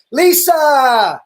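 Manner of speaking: loud, high shout for his wife. Real, not acted. Host yells for his wife during the stream. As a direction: yell her name to fetch her. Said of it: "guys, I'm yelling".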